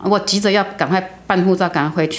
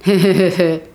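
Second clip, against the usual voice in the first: imitating a sly, sinister heh-heh laugh; mock the eerie giggle she gave; a retold, lightly done creepy cackle. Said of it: "他真的这样笑".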